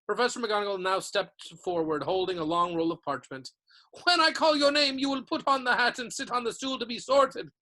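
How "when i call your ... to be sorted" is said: stern teacher. A narrator's reading. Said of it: "she said".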